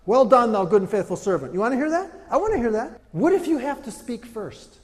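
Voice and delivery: loud, high preaching; impassioned sermon delivery; full-force preaching. Real, not acted. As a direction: preach it hard to the room.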